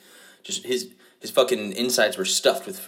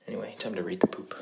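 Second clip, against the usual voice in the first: whisper; 6 dB quieter than usual. Pretend. Recurring bit intro.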